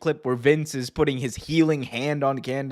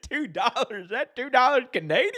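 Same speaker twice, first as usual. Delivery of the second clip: higher, cracking up mid-line; JR quote laughing; 10 semitones higher than usual. Retold or imitated. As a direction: repeat the zinger through laughter. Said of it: "It's like".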